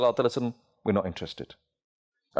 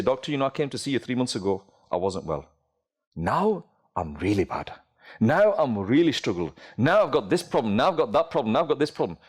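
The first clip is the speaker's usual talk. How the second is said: complaining sick patient; 5 semitones lower than usual. Acted. Patient telling the doctor he is worse, low moaning. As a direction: moan about feeling worse.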